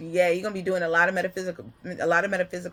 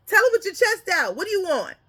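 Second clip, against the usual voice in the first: put-on higher and louder, cheering a little boy on; proud father; 11 semitones higher, 3 dB louder, faster than usual. Father urging his little boy to speak up, high and loud. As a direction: hype up your shy son at the counter. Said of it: "the boy is like".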